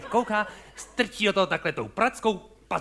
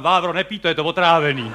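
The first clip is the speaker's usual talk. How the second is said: calling out warning; 4 dB louder than usual. Retold or imitated. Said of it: "já vstal, říkám".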